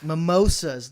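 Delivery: "Mimosas" said as mih-MOH-suhz in place of Momoa; "Mimosas" as a mock-proper pronunciation; mock correct pronunciation. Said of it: "They're pronounced mimosas".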